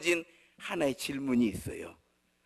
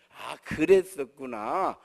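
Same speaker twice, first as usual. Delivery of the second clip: slow, lowered, drawn-out understanding; mock parental empathy; 5 semitones lower, much slower than usual. Parent repeating the formula to a fed-up child, mock empathy. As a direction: parody the stock empathetic parent's reply. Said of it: "그 자녀 교육의 레파토리".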